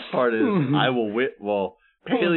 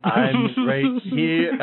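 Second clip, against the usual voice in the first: high, drawn-out protest; plaintive protest; 6 semitones higher, much slower than usual. Acted. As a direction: stretch it out high, insisting on your presence. Body-swapped Peleus answering in character.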